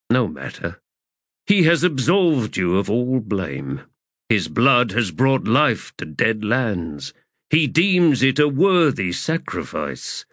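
lightly voiced ancient god; solemn sea god. Mael consoles.

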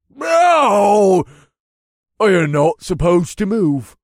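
high, shouted, drawn-out complaint; furious protest. A narrator's reading. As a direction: yell it in outraged frustration. Furious opponent misses his swing.

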